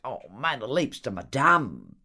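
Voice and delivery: slow, lightly syrupy sweet-talk; wheedling. A narrator's reading. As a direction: coo it, drawing it out. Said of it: "säuselte Horatio W". (säuselnd, langsam gedehnt)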